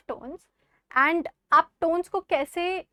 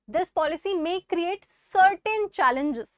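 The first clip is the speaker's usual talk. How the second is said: cautious reading; 2 semitones higher, 4 dB louder, much slower than usual. Shown as a demonstration.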